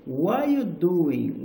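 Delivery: "What are you doing?" in a slow up-and-down glide; rise and fall intonation. Shown as a demonstration. Teacher showing how the sentence goes up and down, slow rise and fall. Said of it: "é esse sobe e desce".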